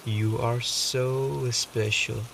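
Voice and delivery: calm meditation voice with long pauses; softly reassuring meditation guide, unhurried; guided meditation. Acted. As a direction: guide the listener gently, leaving space between phrases.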